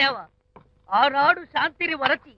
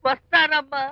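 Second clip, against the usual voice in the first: mock tearful. Wailing friend takes mock-tearful leave.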